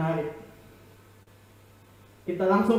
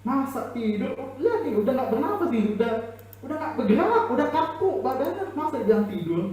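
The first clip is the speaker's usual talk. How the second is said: higher, scoffing with a laugh; mocking laughter; 5 semitones higher than usual. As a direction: laugh at the absurd claim.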